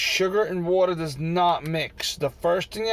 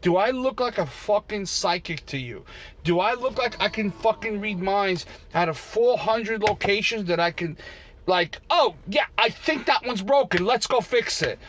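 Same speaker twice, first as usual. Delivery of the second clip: sarcastic inner rant; 4 semitones higher than usual. Retold or imitated. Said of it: "I'm thinking in my head".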